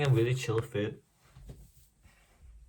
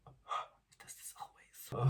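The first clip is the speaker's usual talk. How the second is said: whiny complaint; 3 semitones higher, 8 dB quieter, slower than usual. Real, not acted. Hair misbehaving, whiny complaint.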